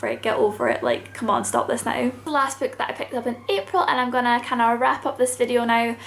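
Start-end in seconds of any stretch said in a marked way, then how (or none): 0.0-2.1 much lower, fed-up muttering; exasperated eye-roll. Retold or imitated. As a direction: tell her to get over it. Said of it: "being like".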